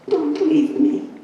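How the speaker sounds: high, slow, pleading "Don't leave me". Retold or imitated. Husband begging his sick wife not to leave, pleading. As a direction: beg her softly to stay.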